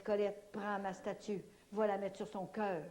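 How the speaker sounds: slow, measured words; "prends ma statue" said slowly and deliberately; saint's gentle order, slowed down; slow calm command. Retold or imitated. Grandmother Saint Anne speaks to her.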